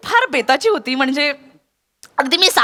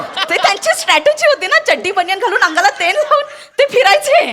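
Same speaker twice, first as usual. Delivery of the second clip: louder excited telling; 4 semitones higher than usual. Real, not acted. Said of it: "माझा आवाज फार वाढला".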